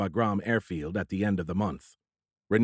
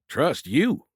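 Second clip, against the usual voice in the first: joking; 6 semitones higher, 4 dB louder than usual. A narrator's reading. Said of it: "The humor in the lieutenant's voice".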